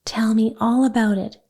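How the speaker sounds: breathy gasped plea. Acted. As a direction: gasp it out eagerly. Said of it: "Maida gasped".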